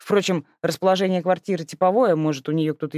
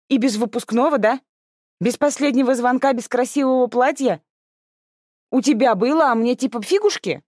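higher, sulky protest list; mild teen outrage; indignant; 8 semitones higher, 4 dB louder than usual. Acted. Sister protests losing prom and pretty dress. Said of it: "возмутилась Аня".

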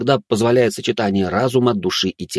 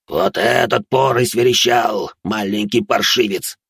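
demonic whisper; slower than usual. Acted. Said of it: "прошипел тощий".

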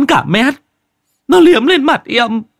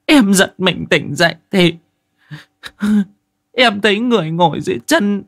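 high, loud, panicked female voice; frightened woman's telling; 12 semitones higher, 5 dB louder than usual. Acted. Wife telling the crew what she saw, terrified and trembling. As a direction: pour out the horror still shaking. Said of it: "chị Giang vẫn cứ run rẩy kể".

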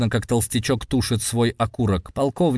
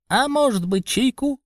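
rubbery high squeaky toy voice; squeaky pipe; 14 semitones higher than usual. A narrator's reading. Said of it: "пискнул толстячок". (писклявый голосок толстячка)

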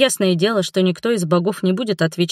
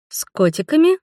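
переспросить с недоумением, вопрос вверх; искренне озадачена странной просьбой; озадаченно; 8 semitones higher than usual. A narrator's reading. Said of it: "озадачилась я". (озадаченный переспрос)

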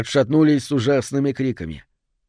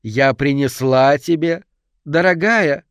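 shouting; 2 semitones higher, 4 dB louder, slower than usual. Acted. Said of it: "закричала леди Саттон".

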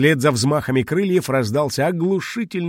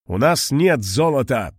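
steady, firm statement with weight on нет; firm нет, not a cry; 2 semitones higher, 3 dB louder than usual. Acted. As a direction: stand your ground calmly. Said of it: "твёрдо сказал Мариэль".

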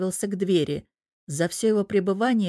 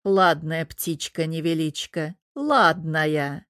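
put-on muttering old man; slower than usual. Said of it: "пробормотал".

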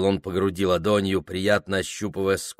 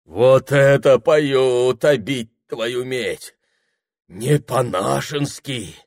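slow, loud, awed exclamation; a tramp overwhelmed by the song; delighted swearing; 5 semitones higher, 6 dB louder, slower than usual. Acted. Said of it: "Восторженно выругался он".

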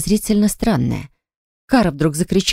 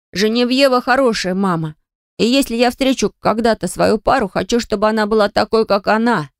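put-on higher, earnest boy's voice; young boy; 5 semitones higher than usual. A narrator's reading. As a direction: speak up like a child defending someone. Young boy defends her to mother. (мальчишеским голосом)

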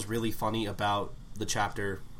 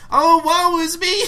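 high, loud, slow tragic lament; melodramatic wail; 10 dB louder, slower than usual. Retold or imitated. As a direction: wail like a stage heroine.

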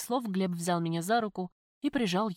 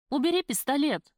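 high, louder cry; woman shouts at armed ex-husband, scared; frightened shout; 7 semitones higher, 5 dB louder than usual. A narrator's reading. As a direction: shout at him to drop it. Facing a man with a gun.

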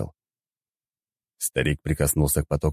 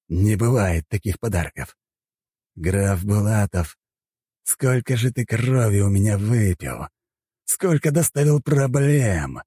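put-on slow, seething outburst at an old enemy; furious disbelief; 5 semitones higher, slower than usual. A narrator's reading. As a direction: spit out the grudge word by word. Hero's fury at the count.

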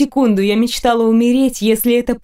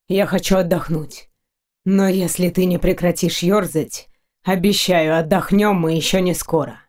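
lightly voiced man, lowered and unhurried; teasing low threat; 3 semitones lower than usual. Tired knight warns his restless lover, lightly voiced low tease. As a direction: keep it low, a veiled promise.

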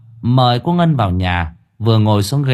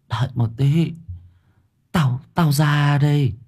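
put-on feeble old woman; 4 semitones higher than usual. A narrator's reading. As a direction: answer wearily as if just coming round. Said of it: "Bà thều thào nói". (giọng bà già thều thào)

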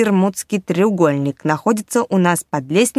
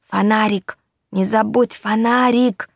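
muffled shout; 3 semitones higher than usual. Acted. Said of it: "донеслось из скафандра".

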